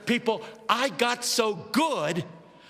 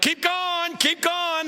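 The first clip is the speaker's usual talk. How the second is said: high-pitched urging shout; repeated, excited church call-out; yell; 8 semitones higher, much slower than usual. Retold or imitated. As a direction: spur the preacher on from the pews. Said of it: "Somebody yelled".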